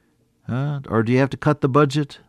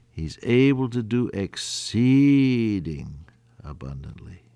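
hushed whisper; 7 semitones lower, 5 dB quieter, slower than usual. Acted. Sermon closes in hush.

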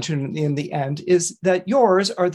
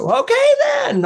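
tortoise accepting; 5 dB louder than usual. Acted. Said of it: "I double challenge you".

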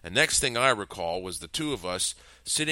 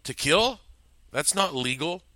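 fumbling; 8 semitones higher, 4 dB louder than usual. Acted. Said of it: "I fumbled for words".

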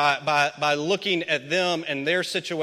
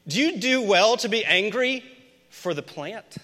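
mock-incredulous question, first half pitched up and louder; ridiculous-sounding; 6 semitones higher, 4 dB louder than usual. Shown as a demonstration. Pastor to congregation, a mock-incredulous question. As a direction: ask it as if it sounds absurd. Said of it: "it sounds ridiculous to say out loud".

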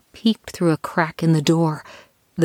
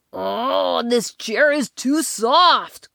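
whiny complaint; 5 semitones higher, much slower than usual. Acted. Sinking into chair.

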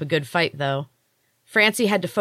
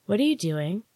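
higher, lightly voiced small child; small child's voice; 4 semitones higher than usual. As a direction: ask like a curious little fairy child. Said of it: "A small voice behind Francie".

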